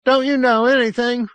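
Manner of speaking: can't believe he doesn't know; astonished boy. A narrator's reading. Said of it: "half astonished".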